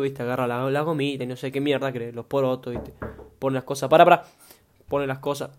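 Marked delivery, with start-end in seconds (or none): 3.9-4.2 sudden loud interjection; real loud call to wait. Real, not acted. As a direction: call sharply to someone at home to hold on. Interrupted by grandmother at home.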